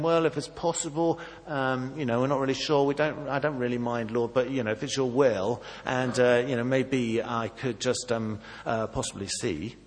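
timid hedging. Retold or imitated. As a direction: hedge every word like a nervous pray-er. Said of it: "Do you hear Bartimaeus saying".

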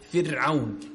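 فرعون with a thin, light ra. Shown as a demonstration. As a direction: demonstrate a light ra after the kasra in فرعون. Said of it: "ترقيق الراء".

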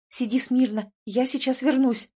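usual speaking voice

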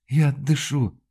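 usual speaking voice

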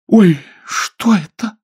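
high, loud, slow startled cry. A narrator's reading. Lady sees the revolver, crying out high and loud. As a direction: cry out in alarm at the gun. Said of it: "вскричала леди".

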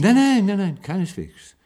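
sudden high, loud burst of no; alarmed protest. Acted. Patient stops Maggie from leaving, alarmed high cry. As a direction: cry out in alarm so she won't leave. Patient panics, begs her stay.

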